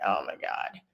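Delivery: breathy whispered groan of dread; barely voiced, sinking oh my God. Coworker dreading a shift with her, whispered groan.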